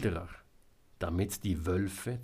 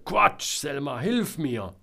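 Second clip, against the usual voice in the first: loud, raised protesting call; calling for help; 5 semitones higher, 6 dB louder than usual. A narrator's reading. Trapped Georg calls for help. (laut um Hilfe rufen)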